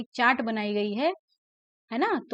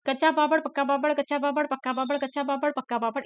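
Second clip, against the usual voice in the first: quick tongue twister; 3 semitones higher, faster than usual. Shown as a demonstration. Teacher shows pupils the tongue twister, quick. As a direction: rattle off कच्चा पापड़ पक्का पापड़ quickly. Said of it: "अब झटपट कहिए".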